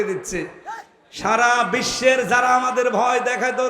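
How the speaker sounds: rousing sermon, words flung out to the crowd; preaching. Acted. Preacher rousing the congregation about God's promise, fervent preaching. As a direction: preach it with full fervour. Sermon resumes after mic fix.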